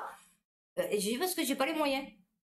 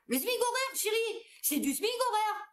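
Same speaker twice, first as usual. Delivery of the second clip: mock condescending; 11 semitones higher than usual. Real, not acted. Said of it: "sarcastic mock reply".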